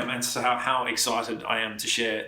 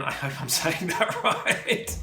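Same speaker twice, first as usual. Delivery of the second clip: laughing; 4 semitones higher, slower than usual. Real, not acted. Laughing over name pronunciation.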